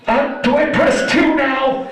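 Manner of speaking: loud, high, drawn-out mom voice; confused mom. Retold or imitated. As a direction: imitate a baffled mother loudly struggling with the phone.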